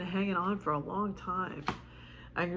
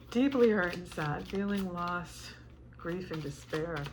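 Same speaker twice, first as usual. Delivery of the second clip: heavy-hearted reading. Real, not acted. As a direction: let the sadness slow each word. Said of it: "such a heaviness right now".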